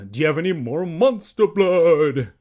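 put-on very loud, high-pitched excited boy; voice cracking. A narrator's reading. Evan begs Andy about monster blood, voice cracking. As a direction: push it up loudly towards a crack. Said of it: "His voice cracked".

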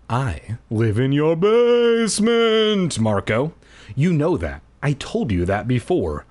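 sing-song menace from the basement; creepy basement man. Acted. Keith voiced as creepy figure.

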